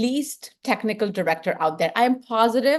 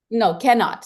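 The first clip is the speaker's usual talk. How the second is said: Indian accent, no, cannot, a bit louder; 5 dB louder than usual. Shown as a demonstration. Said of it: "Sorry, it's my Indian accent".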